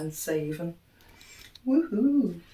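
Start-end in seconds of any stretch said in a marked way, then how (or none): 1.7-2.4 high, bright woohoo; excited cheer. Real, not acted. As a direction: cheer at the bargain. Celebrating a big saving.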